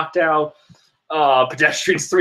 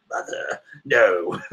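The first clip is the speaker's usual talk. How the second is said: mock cry of mother dissolving into laughter; high laughing wail; 11 semitones higher, slower than usual. Fan voicing Big Mom with a high laughing wail. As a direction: wail it high then crack up.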